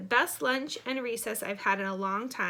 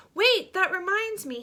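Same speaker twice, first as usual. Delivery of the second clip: sudden realisation; 10 semitones higher, 7 dB louder than usual. A narrator's reading. Boy suddenly onto something else.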